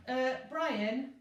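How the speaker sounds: high, sleepy hesitant voice; drowsy yawning driver. A narrator's reading. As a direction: yawn through it, half asleep. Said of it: "yawned the driver".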